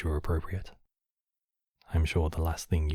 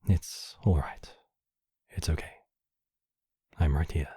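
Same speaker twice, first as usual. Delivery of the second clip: gently calm someone who is hurt; soothing reassurance. Acted. Host comforting the hurt guest after an outburst, soothing.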